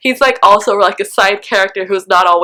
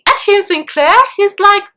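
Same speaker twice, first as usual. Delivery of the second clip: high incredulous fangirl voice; mock a viewer's outraged disbelief; outraged fan imitation, pitched up; imitating shocked viewer; 9 semitones higher than usual. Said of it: "you're thinking".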